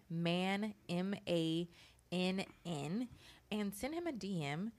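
polished, professional ad read; sponsor voice. Real, not acted. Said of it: "I gotta get my sponsor voice like you. You are so professional".

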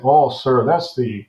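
mock German accent, pitch climbing; heavy German accent. German guy answering the colonel, in a heavy German accent. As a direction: imitate a German officer, stretching the punchline. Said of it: "the German in his heavy accent".

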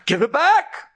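begging with everything he has; desperate demand. Acted. Driver pleading again.

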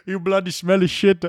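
high, loud mock Indian insult; high loud mock accent insult. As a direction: spit it out in a shrill caricature.

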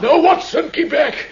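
high, loud command to keep away; sharp cry. Acted. Sick Holmes crying out to stop Watson coming near. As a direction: shout him back from the bed.

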